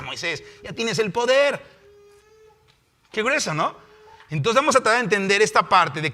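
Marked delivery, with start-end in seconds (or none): 0.0-1.8 slow, raised-pitch firm command; God rebuking Moses. Acted. God answering weeping Moses, firm rebuke. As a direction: draw it out as an exasperated order. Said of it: "Y Dios, ya".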